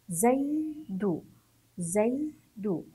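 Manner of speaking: زي then دو, each syllable set apart; deliberate syllables, زي... دو; spelling out. Shown as a demonstration. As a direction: sound out زي، دو for learners. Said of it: "نتهجى الكلمات ونقرأها".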